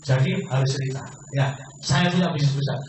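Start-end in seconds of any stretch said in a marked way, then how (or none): 1.8-2.8 optimistic. Shown as a demonstration. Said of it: "Ngomongnya harus dengan optimis".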